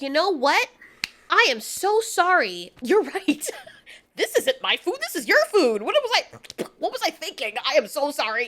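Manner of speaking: mock-flustered, exaggerated apology; lightly voiced apologetic coyote. Coyote backs off from the alien predator, hammed-up apologetic. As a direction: play a backpedalling animal with swooping pitch. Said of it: "A regular coyote or whatever animal this is supposed to be would have been like".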